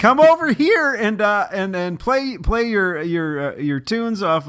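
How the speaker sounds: high, loud mock Italian accent, settling down. Italian fans asking the band to play, in a mock Italian accent. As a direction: invite the band over as a hammed-up Italian fan. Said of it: "that's my Italian accent".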